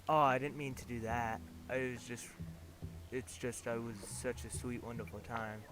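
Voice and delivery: soft, teary and broken off; fighting through happy tears; crying. Acted. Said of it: "And now I can't stop".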